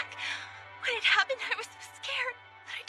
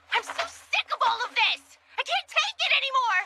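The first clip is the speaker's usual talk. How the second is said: raised, desperate ranting; anguished outburst; 5 semitones higher than usual. Acted. Worn-down girl venting at her friends, desperate shouting. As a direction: let everything burst out at once.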